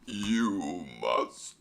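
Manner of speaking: silly god voice. Pretend. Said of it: "speaking in this voice".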